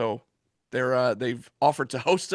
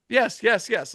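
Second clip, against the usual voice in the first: excited; 6 semitones higher, slower than usual. Real, not acted. Celebrating the match news.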